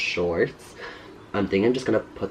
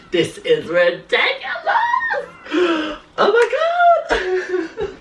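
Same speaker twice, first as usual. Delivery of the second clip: laughing shout; 4 dB louder, slower than usual. Real, not acted. Overwhelmed by the mess, laughing.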